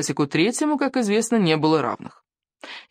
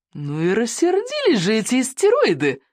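put-on excited girl; 5 semitones higher than usual. A narrator's reading. Kamikaze, breathless after the chase.

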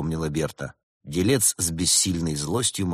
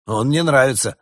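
high, loud approval; approving; 7 semitones higher, 8 dB louder than usual. A narrator's reading. Summer spirit takes to the businessman, approving. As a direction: pronounce your liking in raised pitch. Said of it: "одобрительно изрёк дух лета".

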